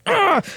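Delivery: high, short mock "ugh"; imitated procedure noise. Patient imitating the doctor pushing the camera in, mock noise. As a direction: make the noise of the pinch going in. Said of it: "And then he goes".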